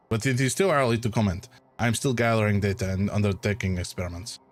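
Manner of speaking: put-on light French-accented doctor; a hint of French, polite deferral. Doctor putting off the player in a French accent. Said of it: "It's a terrible French accent".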